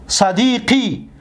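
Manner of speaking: صدیقی stretched out slowly and clearly; slow demonstration. Shown as a demonstration. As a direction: say صدیقی slowly so students hear each sound. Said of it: "دقت بتید". (صدیقی را آهسته و واضح تلفظ کن)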